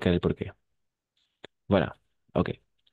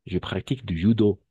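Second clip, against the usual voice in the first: "judo" stressed on its last syllable; final-syllable stress. Shown as a demonstration. Teacher illustrating French prosody, "judo" stressed on the end. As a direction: let the phrase land on the DO of "judo". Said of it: "siempre la última sílaba".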